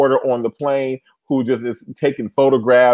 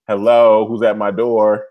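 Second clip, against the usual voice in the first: lower, louder mock hello; playful door answering; 5 semitones lower, 3 dB louder, slower than usual. Host greets a pretend visitor at the door, mock formal. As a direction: play at answering a knock. Answers as a character comes knocking.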